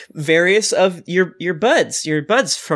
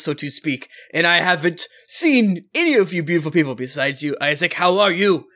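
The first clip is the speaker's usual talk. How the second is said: dropping fake accent. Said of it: "his voice keeps changing".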